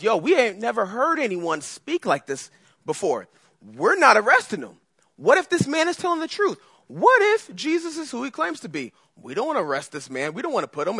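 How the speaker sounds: rising, agitated guard voices peaking high; pleading temple guards. Acted. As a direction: guards refusing, voice jumping up in alarm. Temple guards protest to priests.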